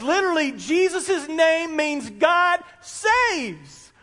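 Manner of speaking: slow, shouted proclamation, pitch rising; excited shout. Real, not acted. Preacher to congregation, slow ringing shout. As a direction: proclaim it with full force. Preacher exclaims the name's meaning.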